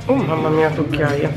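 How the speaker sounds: ordinary talk, nothing marked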